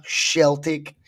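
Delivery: "Celtic" read out as "Shell-tick"; sh in place of s in "Celtic"; Sheltic pronunciation. Shown as a demonstration. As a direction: start "Celtic" with a sh. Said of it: "that's me reading the, the avatar".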